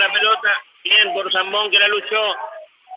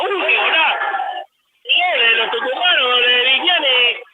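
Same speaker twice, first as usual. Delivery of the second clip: breakneck goal commentary; 4 semitones higher than usual. Real, not acted. Basketball play-by-play, goal scored.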